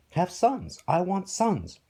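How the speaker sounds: high-pitched, demanding yell; insistent high shout. Acted. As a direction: yell it as an order to your wife. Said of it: "kept yelling at his wife".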